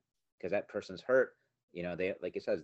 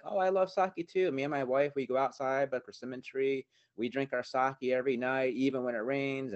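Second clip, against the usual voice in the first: put-on chatty old man; 6 semitones higher, 5 dB louder than usual. Old man chats about sake.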